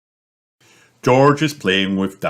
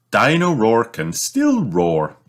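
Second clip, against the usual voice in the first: brightly; 5 semitones higher than usual. Acted. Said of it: "says Mummy Pig brightly".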